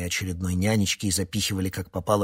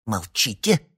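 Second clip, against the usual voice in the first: язвительно; 4 semitones higher, 5 dB louder than usual. A narrator's reading. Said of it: "язвительно прошептал Синайский".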